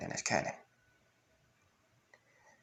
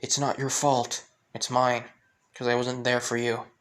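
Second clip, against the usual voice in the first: mild acted yell, only a little raised; 4 dB louder than usual. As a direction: protest emphatically without a full shout. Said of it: "With Link just yelling out saying".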